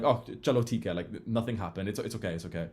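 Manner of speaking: lightly voiced calm father; calm reassuring dad. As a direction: settle the child down gently. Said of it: "he'd say in Urdu".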